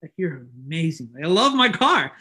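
fawning over a beloved car; a teen talking to his car, adoring then gushing. Retold or imitated. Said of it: "And I would just think".

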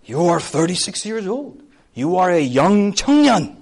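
lightly voiced disbelieving Korean elder; a hint of a condescending elder. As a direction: query it like a doubtful senior. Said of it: "I'll talk to someone in Korea, they're like".

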